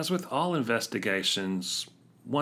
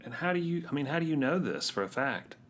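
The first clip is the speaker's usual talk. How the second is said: disbelieving; 7 semitones higher than usual. Real, not acted. Pressing in disbelief.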